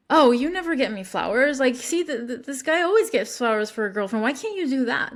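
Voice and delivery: mock nag at a boyfriend; lightly acted reproach; nagging. Shown as a demonstration. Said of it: "That's, like, nagging".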